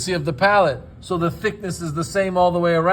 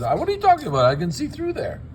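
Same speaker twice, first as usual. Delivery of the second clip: mock incredulous; 7 semitones higher, faster than usual. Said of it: "I said".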